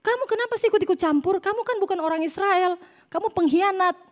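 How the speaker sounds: mildly indignant, high-pitched telling-off; mock angry scolding. Israelites turn on Moses for meddling in their fight, mildly angry scolding. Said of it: "marah si Musa".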